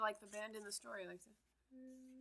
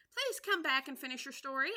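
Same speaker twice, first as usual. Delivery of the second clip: calling after; 6 semitones higher, 9 dB louder than usual. Acted. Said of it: "Alice called after it".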